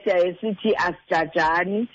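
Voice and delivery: normal talking voice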